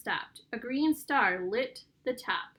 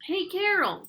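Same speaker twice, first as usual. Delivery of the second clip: higher, louder call-out; yell; 8 semitones higher, 6 dB louder than usual. A narrator's reading. Rocky hails Carol over the speaker, raised yell. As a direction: call out to someone out of sight. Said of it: "yelled Rocky".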